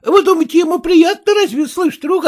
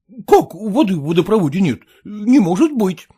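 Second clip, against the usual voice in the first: husband exclaiming; 7 semitones lower than usual. Acted. Husband hearing there is no water, exclaiming lowly. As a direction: exclaim it low in mild disbelief. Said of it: "воскликнул муж".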